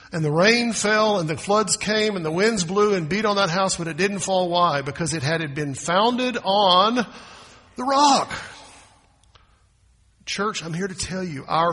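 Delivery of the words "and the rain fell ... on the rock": louder, climbing to a high peak on rock; rising preaching. Acted. Preacher building the parable to the church. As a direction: build the scripture to a shouted climax.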